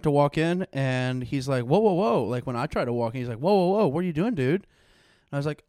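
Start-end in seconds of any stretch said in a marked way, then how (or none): 1.6-2.2 imitated guard's raised-voice halt; retold challenge. Door guard halting a latecomer, imitated challenge. 3.4-4.6 imitated guard, raised and higher; retold challenge. Door guard questioning someone walking in, imitated challenge.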